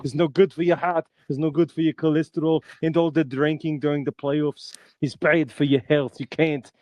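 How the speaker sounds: a light hint of a lecturing action hero, barely changed voice; half-hearted muscleman warning his friend about his health; Arnold Schwarzenegger. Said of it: "And he says".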